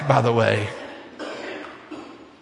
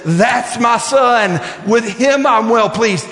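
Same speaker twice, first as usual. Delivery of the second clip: Father's voice; 5 semitones higher, slower than usual. Acted. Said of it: "the Father's voice says".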